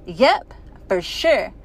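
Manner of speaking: slow, breathless agreement; out of breath. Acted. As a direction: gasp it out after playing hard. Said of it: "out of breath".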